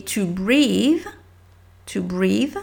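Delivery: to breathe slowed right down, long ee; careful English demo. Shown as a demonstration. Teacher repeating to breathe while spelling it out, slow. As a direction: linger on the ee of to breathe. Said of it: "B R E A T H E".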